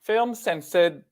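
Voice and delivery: slow, high British accent slipping into Australian; careful, badly faked British accent; attempted British accent. Shown as a demonstration. Co-host retrying the blurb, British accent coming out Australian. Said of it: "it's coming out Australian".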